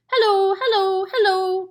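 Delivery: high, loud squawking parrot; parrot calling. A narrator's reading. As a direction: call down the chimney squawking. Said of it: "came the voice again".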